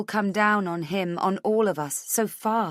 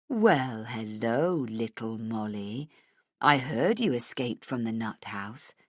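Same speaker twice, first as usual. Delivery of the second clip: low, leisurely villain's taunt; mocking low sing-song; 7 semitones lower, slower than usual. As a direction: toy with them in a low, lilting voice. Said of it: "almost in sing-song voice".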